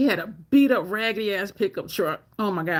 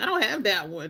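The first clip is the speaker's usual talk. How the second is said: acted, bratty, spoiled-brat tone; 3 dB quieter than usual. Retelling what another man said, mimicking a bratty tone. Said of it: "He said it like a brat".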